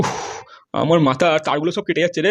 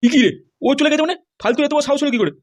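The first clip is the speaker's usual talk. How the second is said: outraged disbelief; 6 semitones higher than usual. Acted. Husband learns family left.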